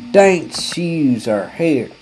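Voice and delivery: slow announcer voice; mock ad read. Customer reading a placard like an ad. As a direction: read the sign like a commercial. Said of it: "a big old placard says".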